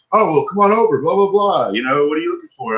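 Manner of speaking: high, mocking salesman patter; Roger. Customer mimics salesman waving him over, high mocking voice. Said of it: "fucking Roger walks up".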